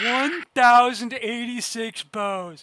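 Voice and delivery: loud, slow, drawn-out disbelief; real amazement at the count; stunned disbelief. Real, not acted. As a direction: spell out the number in shock. Shocked at enemy army size.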